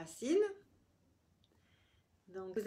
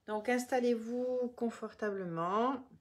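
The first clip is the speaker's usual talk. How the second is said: measured meditation voice with long pauses between phrases; guided relaxation. Real, not acted. Yoga teacher guiding listeners through the body, calm guided relaxation.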